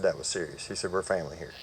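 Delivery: low, softened voice; grave retold confiding. Surgeon telling patient he is family, low and grave. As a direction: quietly relay a serious word, lightly acted.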